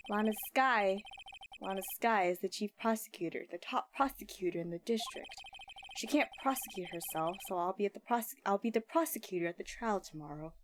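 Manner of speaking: low, dry and aloof; cool prosecutor. Acted. Edgeworth greeting his old rival, lightly voiced cool and low. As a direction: talk down to him coolly.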